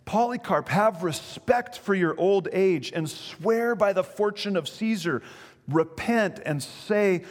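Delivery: lightly voiced Roman proconsul, slow and pressing; persuading proconsul. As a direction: urge the old man to recant. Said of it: "he began to persuade him, saying".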